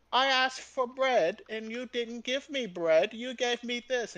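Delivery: high, slow, deliberate grievance; mock complaint. Imitating a customer sent the wrong thing, mock indignant. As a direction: voice an affronted customer.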